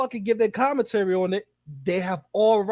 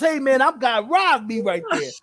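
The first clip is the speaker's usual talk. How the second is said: higher, put-on voice of someone crying robbery; mock robbed victim; 6 semitones higher than usual. Streamer imitates a robbed man reporting to police, higher put-on whine. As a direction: play the robbed guy running to the cops. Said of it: "You see the difference?".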